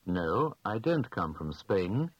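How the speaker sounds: usual speaking voice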